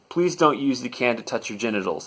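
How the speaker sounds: even, matter-of-fact request. Retold or imitated. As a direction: state it as a simple, practical request. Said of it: "a matter-of-fact voice".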